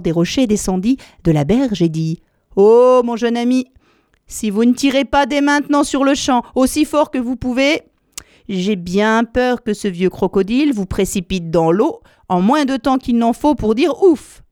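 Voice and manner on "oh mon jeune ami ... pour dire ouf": higher, urgent warning voice; urgent python. Acted. Python urging the elephant child to pull, urgent. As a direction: warn him, hurry.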